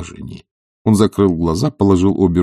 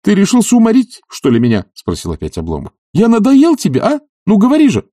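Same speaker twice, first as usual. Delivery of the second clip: much higher, louder exasperated demand; indignant demand; 14 semitones higher, 6 dB louder than usual. Acted. Oblomov demanding an answer from Zakhar, loudly. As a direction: press him for an answer in outrage.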